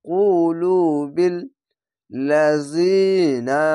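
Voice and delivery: 쿨루빌 drawn out slowly, chanted recitation; one alif stretch. Shown as a demonstration. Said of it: "এক আলিফ টেনে পড়বেন".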